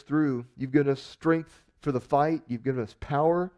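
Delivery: earnest, steady prayer voice; closing prayer. Acted. Pastor praying for the congregation, earnest prayer. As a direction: pray sincerely over the congregation.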